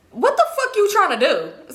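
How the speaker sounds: high, drawn-out mock indignation; indignant challenge. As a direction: act out his irritated challenge, slowly. Acted quarrel, man challenges her.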